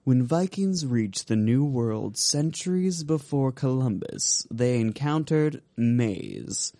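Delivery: slow, dramatic bottle-label reading; storytelling voice. Shown as a demonstration. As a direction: read it like a fireside tale. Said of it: "Get my storytelling voice".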